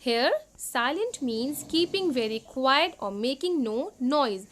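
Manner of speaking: slow, deliberate reading of English text; slow worksheet reading. Acted. Teacher reading the worksheet slowly to second graders. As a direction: read each word out slowly for young students.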